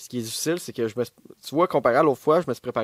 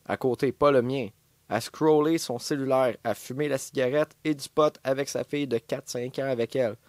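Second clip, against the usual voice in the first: brisk letter-reading voice, a bit raised; reading a letter aloud; 2 semitones higher than usual. Acted. Reads a listener's letter aloud.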